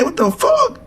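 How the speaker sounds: very high, squeaky what-the-fuck; stunned disbelief. Retold or imitated. Hearing his friend deny the gun, squeaky mock shock. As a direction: act out your own shocked disbelief.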